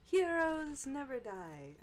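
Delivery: high, slow, loud heroic call; game hero impression. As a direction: proclaim it slowly like a game hero. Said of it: "I can't do that voice".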